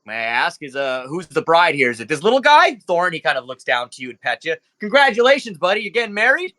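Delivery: chummy and a bit presumptuous; jovial club owner. Acted. GM voices Nero Pink.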